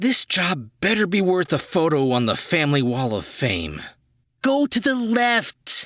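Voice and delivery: grumpy little commando voice. A toddler in full tactical gear gives orders, in a short-tempered toddler voice. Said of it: "A Short Tempered Toddler in Full Tactical Gear".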